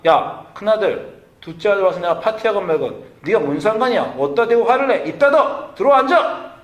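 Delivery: escalating paternal yell ending in commands; angry father shouting. Retold or imitated. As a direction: order the sulking son inside, furious. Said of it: "당시 사회라면 아버지가".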